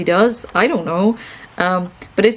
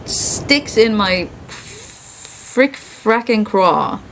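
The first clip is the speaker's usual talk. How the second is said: bitter; much slower than usual. Real, not acted. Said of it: "that sounds petty and bitter".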